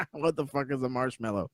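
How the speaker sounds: breaking into laughter on the repeat; mock-baffled quote dissolving into a laugh; quoted disbelief. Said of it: "He says".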